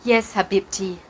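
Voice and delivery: low, soft fatherly sigh; soft, wistful father. A narrator's reading. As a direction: answer gently and low, with a sigh. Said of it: "he sighed".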